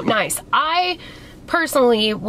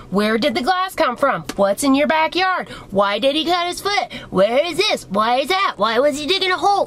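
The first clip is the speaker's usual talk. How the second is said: rapid-fire grilling questions, pitched up, mocking; mock interrogation; 3 semitones higher than usual. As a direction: mimic a nosy vet grilling her. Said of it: "Why did this fucking bitch sit and drill me?".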